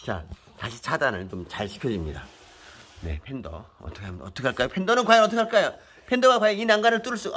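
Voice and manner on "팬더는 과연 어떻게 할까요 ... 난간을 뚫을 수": commentator suspense. Real, not acted. Narrating like a commentator.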